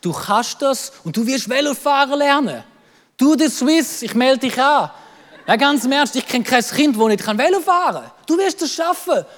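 parent cheering on a child, acted; pep talk, lifted in pitch; encouraging. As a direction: urge a doubting child on. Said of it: "wir haben ihn so viel motiviert".

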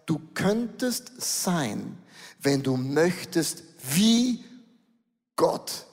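slow, tempting voice of the enemy, fading to a breath; enemy's whisper. Retold or imitated. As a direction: lure them in slowly, then breathe the last word. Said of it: "es ist immer der Satz". (verführerische Stimme des Feindes, langsam, das letzte Wort gehaucht)

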